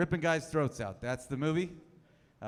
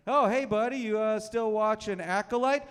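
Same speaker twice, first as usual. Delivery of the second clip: mock friendly question; 5 semitones higher, 4 dB louder than usual.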